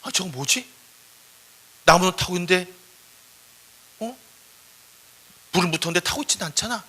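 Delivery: acted gasp, then puzzled wonder; startled. Moses spotting the burning bush from afar, startled and puzzled. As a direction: take in a baffling sight, halting. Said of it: "멀리서 보고 있던 모세가 깜짝 놀".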